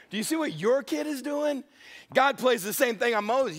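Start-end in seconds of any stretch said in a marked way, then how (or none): 0.1-1.6 exasperated parent. Retold or imitated. Repeat of husband's complaint.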